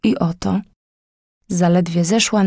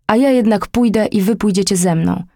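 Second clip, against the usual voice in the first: hot-headed shout. Acted. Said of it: "krzyknął zapalczywie Waluś".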